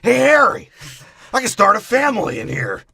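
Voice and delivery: high, loud goofy call; excited sidekick. Acted. Marv calling Harry from the toy house, high goofy voice. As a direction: call out in hammed-up glee.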